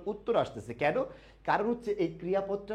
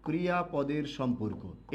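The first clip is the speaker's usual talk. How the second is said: slow dictation; slower than usual. Shown as a demonstration. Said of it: "একটু লিখবেন সবাই".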